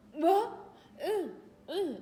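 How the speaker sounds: loud, high mock indignation; imitated huffy kid. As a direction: huff back loudly, playing an outraged kid. Imitating the angry kid's huffy reply.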